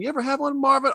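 high quoted movie line; movie character quote. Retold or imitated. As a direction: pitch it up, a movie-character question. Quoting Pulp Fiction scene.

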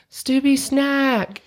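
high, slow, drawn-out shout; mock yell over music. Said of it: "We're, like, screaming".

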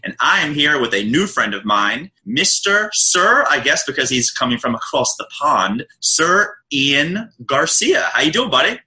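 hyped show opener; showy host intro. Real, not acted. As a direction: announce your guest with punchy, stretched-out emphasis.

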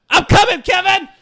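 high, loud charging yell; full-voiced rallying shout; calling out. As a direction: holler ahead to a friend as you run in. Character calls out, charging into cave.

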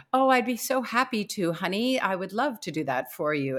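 mock-obliging husband, lightly acted; fake eagerness. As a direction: imitate someone pretending to be glad to help. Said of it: "he couldn't even fake the".

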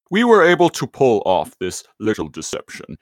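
the better, truer Megatron villain voice. Retold or imitated. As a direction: nail the scheming robot tyrant. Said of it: "that one was much better".

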